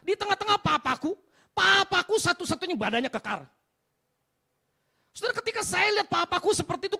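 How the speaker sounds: impassioned shouted preaching; full-force preaching. Real, not acted. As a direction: hammer it out to the whole congregation.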